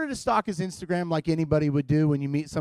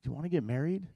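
mock casual proposal; 5 semitones lower, 6 dB quieter than usual. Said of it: "I was just like".

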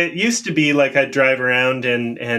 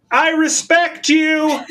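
cheesy pickup line; 13 semitones higher than usual. Pretend. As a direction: yell it up the street, half laughing. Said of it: "you yell".

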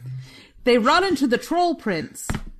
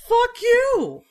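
angry shout; 13 semitones higher than usual. Acted. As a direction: blurt it out outraged. Guys mock-outraged at Hamlet.

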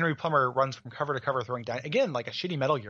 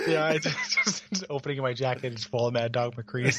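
laughing. Pretend. Playing a shady game peddler, laughing. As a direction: laugh through the silly pretend bit. Laughing through salesman bit.

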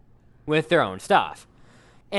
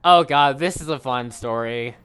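low, deadpan sarcastic remark; 4 semitones lower than usual. Real, not acted. Host sets up a story he calls fun, sarcastically. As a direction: feign delight with dry, lowered pitch.

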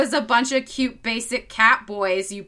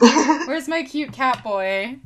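slow, eager and high; excited; 5 semitones higher, 3 dB louder, much slower than usual. Real, not acted. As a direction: gush over it, drawn out. Eagerly looking at Noctis.

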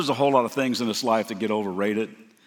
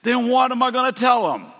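high, louder panicky question; anxious Moses; 10 semitones higher, 4 dB louder than usual. Retold or imitated. Moses asking God what to tell the people, panicky rise. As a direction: voice climbing in worry. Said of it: "He's like saying".

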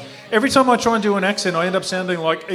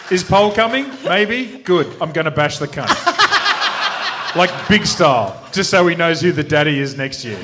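Remy. Acted. Wedding guest threatening a rival, lightly acted cockiness. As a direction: lightly impersonate a racer spoiling for a fight. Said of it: "I need to do Remy".

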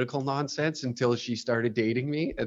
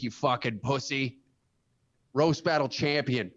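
wrestling promo. Pretend. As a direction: threaten your rival like a heel wrestler. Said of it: "cut a promo".

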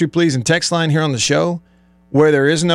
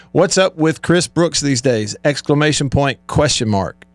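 mock voice message. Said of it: "if anybody hears you do it".

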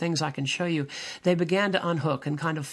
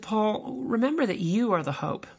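higher, emphatic pronouncement; 5 semitones higher than usual. Retold or imitated. Religious psychologist counsels a struggling minister, emphatic. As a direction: stress YOU in "you are the hope", pitched up. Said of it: "extremely emphatic and very, very s-, staggering".

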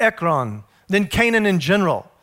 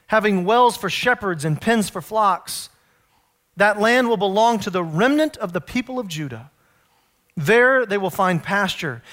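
measured, slightly lowered reading voice; scripture reading. A narrator's reading. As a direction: read the prophecy evenly and solemnly. Reads scripture aloud.

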